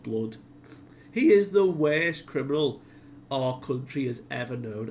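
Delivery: emphatic retold protest, punching key words; mock indignation. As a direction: lay out the charge with mild outrage. Outraged objection to releasing Loki.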